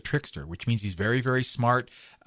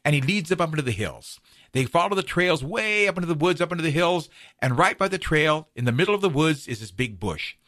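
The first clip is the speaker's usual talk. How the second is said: animated telling, pitched up then settling; story narration; 4 semitones higher, 3 dB louder than usual. A narrator's reading. Storyteller leads listeners up into the hills, lively narration. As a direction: draw listeners along the trail.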